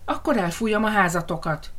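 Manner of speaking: mild mock howl, stress on Akkor; understated roar of the threat; howling wolf. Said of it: "üvöltötte a farkas". (enyhén üvöltő farkas)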